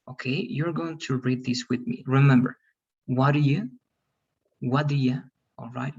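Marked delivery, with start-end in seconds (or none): 3.1-5.2 "What do you" linked with a flapped T; second form, contracted. Shown as a demonstration. Teacher modeling for the class to repeat, contracted. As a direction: run "What do you" into one smooth word. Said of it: "Let's practice only the second form".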